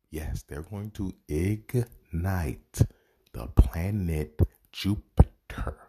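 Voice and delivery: slow, hushed mock awe; mock-dramatic reveal. Real, not acted. Mocking the film's plan, slow hushed mock drama. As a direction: draw it out like a ridiculous trailer twist.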